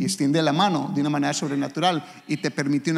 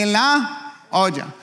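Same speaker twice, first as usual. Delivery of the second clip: slow gloomy reply; 4 semitones higher, slower than usual. Acted. A broke man answering about money, slow and glum. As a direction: drag it out, down in the dumps.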